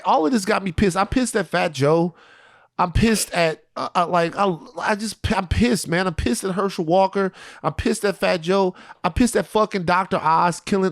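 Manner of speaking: worked-up venting, pitch lifted; pissed off. Real, not acted. Host listing everyone he is mad at, pissed off. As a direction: vent it, leaning on each "pissed". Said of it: "Like, I'm just mad".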